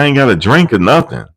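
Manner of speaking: imitating a complaining man; lightly voiced peeved guest; mock whiny complaint. Retold complaint, high pitch.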